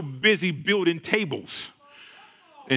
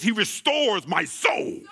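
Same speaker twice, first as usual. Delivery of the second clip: fiery preaching; slower than usual. Acted. Preacher quoting scripture with fire.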